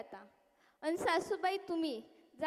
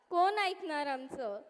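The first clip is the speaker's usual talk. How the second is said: pleading lament. Acted. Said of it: "repeated, fading lament".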